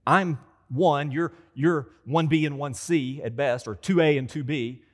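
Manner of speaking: Peter voiced. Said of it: "what was he thinking".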